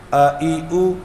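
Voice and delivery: plain آ ای او without the ain; faulty vowel drill; wrong vowel reading. Shown as a demonstration. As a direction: say آ، ای، او as simple vowels, no throat sound. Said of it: "یہ غلطی ہو رہی ہے".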